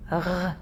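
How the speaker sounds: "r" made in the throat; French "r" scraped from the throat. Shown as a demonstration. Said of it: "where you have to use your throat".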